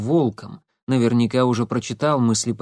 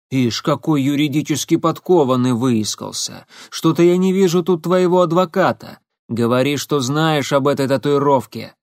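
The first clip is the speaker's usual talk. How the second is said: rough pressure; 3 semitones higher, 4 dB louder than usual. Acted. Igor pressuring the boy.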